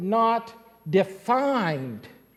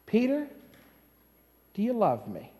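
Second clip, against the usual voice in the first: gentle question; 7 dB quieter than usual. Acted. Jesus gently questions Peter aside.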